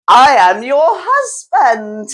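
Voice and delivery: low, slow declaration; slow deep rat voice. Acted. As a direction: announce it slowly, deep. Rat declares himself husband.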